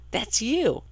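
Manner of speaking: put-on boyfriend's teasing line.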